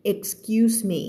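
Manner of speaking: "excuse me" with the s clearly sounded after k. Shown as a demonstration. Teacher modelling for students, "excuse me" with a clear ks. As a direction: say "excuse me" keeping both s sounds. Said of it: "x q มีไม่ได้ excuse".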